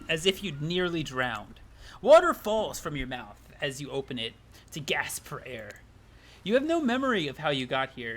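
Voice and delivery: measured storybook narrator voice; lightly voiced game narrator. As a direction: read it like a game's narrator setting the scene. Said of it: "gotta voice act this".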